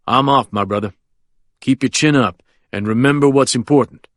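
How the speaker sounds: put-on smiling at a frightened child; confident old lawyer. Quentin to narrator.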